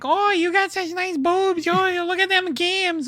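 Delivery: high sleazy Edward voice. Retold or imitated. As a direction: lay on a sleazy come-on. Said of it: "He was like".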